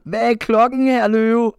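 put-on high, slow sing-song call of a crowd of kids; children calling out. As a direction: chant it like little kids calling together. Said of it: "så råber alle de små børn". (høje, langsomme børneråb)

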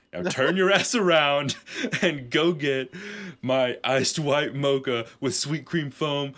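loud, high, laughing diva demand; mock-imperious coffee order; bossy mock order. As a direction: order the intern about, hammed-up. Boss orders intern to fetch coffee.

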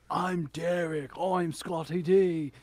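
slow, drawn-out show-off name announcing; mock grand introduction. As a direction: present the names all special, stretching them out. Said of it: "presenting your name or something all special".

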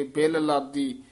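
ਬਿਲ ਲਾਦੀ with a doubled ਲ heard; both ਲ in ਬਿਲ ਲਾਦੀ. Shown as a demonstration. Teacher correcting the reciter, both ਲ in ਬਿਲ ਲਾਦੀ. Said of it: "ਦੋਵੇਂ ਲੱਲੇ".

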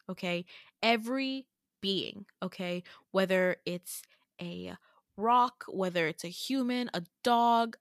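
deliberate, spaced-out retold exposition; careful explaining. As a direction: act out gravely laying out magical lore. Retold solemn explanation of magic.

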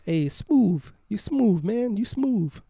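high-pitched teasing "smooth", ending in a V. Retold or imitated. Teasing the co-host's TH trouble, mock "smooth" as smoove. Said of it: "smooth with the V".

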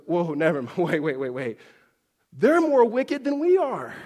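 backpedal, then blurt it out in alarm. Retold or imitated. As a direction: prophet shocked by God's answer. Habakkuk recoiling at God's plan.

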